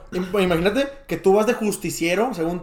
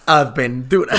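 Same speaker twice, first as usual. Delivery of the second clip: Bacardi; 6 semitones lower, much slower than usual. Retold or imitated. Friend echoing the fortune-cookie word, ad-slogan imitation. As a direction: draw it out like a drinks advert. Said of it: "como, como, como el Bacardi".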